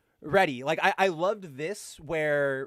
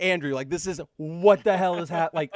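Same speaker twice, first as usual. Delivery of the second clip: excited; 6 dB louder than usual. Retold or imitated. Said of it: "And I was just like".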